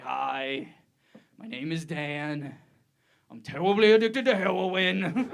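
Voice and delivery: slow introduction, then blurt "terribly addicted to heroin" with W's for R's; man with R impediment. Acted. Middle-aged man introducing himself as an addict, "heroin" with W for R. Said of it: "a very bitter, confused fifty-five-year-old man".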